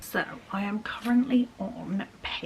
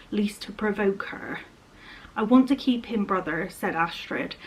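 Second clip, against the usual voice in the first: reading a novel aloud, steady; story narration. A narrator's reading. Vlogger reads a fantasy novel passage to her viewers, measured narration.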